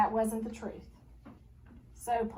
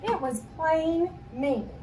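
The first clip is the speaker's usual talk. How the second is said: reproachful; 6 semitones higher, 5 dB louder, slower than usual. A narrator's reading. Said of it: "replied Ruthie Mae".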